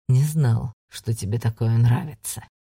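low, sly taunt; mocking low voice. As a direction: needle her gently.

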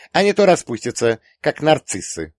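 put-on high, loud girlish severity; stern. A narrator's reading. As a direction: lay down the law in a girl's voice. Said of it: "сурово отрезала Юля". (строго, высоким голосом дочки)

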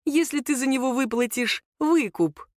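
a hint of a menacing bandit; menacing thug. A narrator's reading. The thug names his ransom price, lightly menacing. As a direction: lean on если, threatening.

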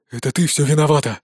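ordinary delivery, nothing marked

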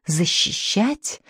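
quiet, slow, menacing question; slow menace. Acted. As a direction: dehnt das Wort drohend und leise. Colonel menacing.

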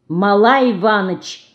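slow, firm cutting in; a hint of a stern rebuke; stern interruption. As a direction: stop him sternly. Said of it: "строго прервала его Лина".

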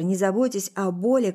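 ordinary delivery

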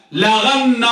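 slow la-ghan-na for لغن; teacher's careful model of لغن; lam and ghayn. Shown as a demonstration. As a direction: stretch لغن, gh in the middle, doubled n. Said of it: "باللام والغين المعجمة".

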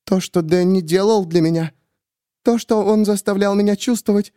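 high, fervent woman; cling to the belief; Miriam voiced. A narrator's reading. Miriam telling the narrator about Danny, high fervent.

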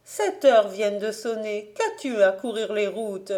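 a hint of a worried old aunt; scolding aunt.

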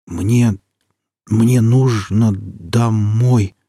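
very slow, faltering plea; weak halting voice. Acted. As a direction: force the words out weakly. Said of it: "услышал он звук собственного голоса".

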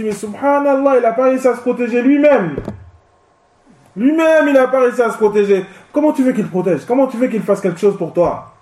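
high, quick incredulous reply; incredulous retort. Retold or imitated. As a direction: answer with disbelief to a believer. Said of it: "Tu dis". (réplique incrédule, aiguë et rapide)

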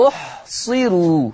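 أحصروا with a thin, light r; أحصروا in measured tajweed, the ra thinned. Shown as a demonstration. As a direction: slowly say أحصروا, keeping the final ru unvelarized. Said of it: "ترقيق الراء".

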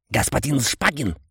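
clicking insect voice, chittering; стрекочущий голос. A narrator's reading. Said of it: "раздался странный стрекочущий голос". (стрекочущий голос насекомого)

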